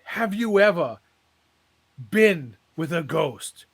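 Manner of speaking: lightly voiced preacher building suspense. Preacher asks the congregation.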